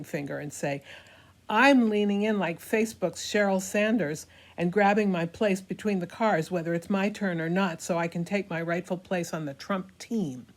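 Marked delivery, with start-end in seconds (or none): 1.5-10.5 hammy stage actor. Acted. Character boasting, voice raised.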